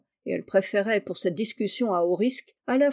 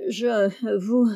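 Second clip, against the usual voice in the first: halting, nervous stammer; frightened butcher stammering to the detective; 2 semitones higher than usual. Acted. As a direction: stumble over the words in panic. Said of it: "il bégaya".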